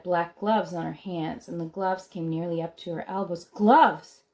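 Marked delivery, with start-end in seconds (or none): 3.4-4.2 alarmed cry. A narrator's reading. Shocked realization of gloves.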